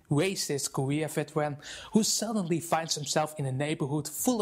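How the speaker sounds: enthusiastic, convincing video host; lively presenter. Shown as a demonstration. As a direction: sell it to the viewers. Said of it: "my voice and expression become much more lively".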